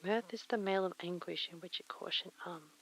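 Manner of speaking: low breathy ASMR tone; soft and breathy, close to the mic. Acted. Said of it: "You've been very low and breathy".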